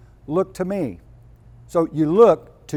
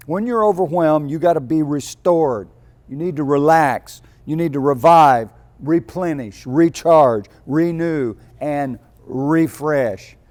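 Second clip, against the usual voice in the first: louder, ringing list of words; preaching build; 5 dB louder than usual. Real, not acted. Preacher rousing the tired listeners, louder ringing list. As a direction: call each word out to the congregation.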